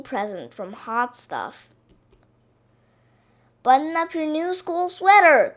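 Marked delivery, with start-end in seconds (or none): 3.6-5.5 raised, higher mother's call. A narrator's reading. Missus Duck to Baby about her sweater, calling out. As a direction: call out briskly to a child in another room. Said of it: "called Missus Duck".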